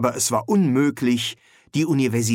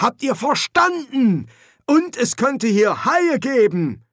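much higher, louder, pleading to be heard; rally them before it's too late; urgent Ponder; 10 semitones higher, 4 dB louder than usual. Acted. Ponder urges the bickering wizards to cooperate, high and pressing.

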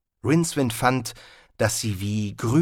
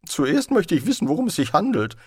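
a touch of a grumble in a higher wizard voice; grumbling wizard; 9 semitones higher, 4 dB louder than usual. A narrator's reading. Rincewind demands an explanation, grumbling. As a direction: grumble it, nervous and pitched up. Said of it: "brummte der Zauberer".

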